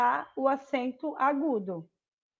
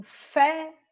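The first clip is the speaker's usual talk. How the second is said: "fé" alone, higher and emphatic; strong syllable; 4 semitones higher, 4 dB louder than usual. Shown as a demonstration. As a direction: punch out "fé" with an open é. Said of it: "é a sílaba mais forte".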